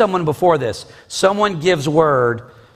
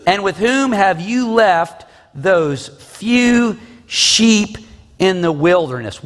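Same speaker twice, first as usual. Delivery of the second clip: mildly angry scolding, pitched up; kindled anger; 5 semitones higher than usual. Acted. Older brother rebuking his youngest brother for coming down, mildly angry. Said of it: "Eliab's anger was kindled against".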